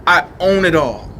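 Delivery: low, slow, quiet brush-off; dismissive Jesus. Retold or imitated. Jesus coolly dismissing the devil's offer, low and slow. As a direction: wave the devil away like he's nothing. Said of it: "The obvious answer is".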